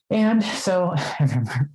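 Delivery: a real laugh breaks into the words. Real, not acted. Telling a friend about flirting, laughing. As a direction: giggle through the start of the memory.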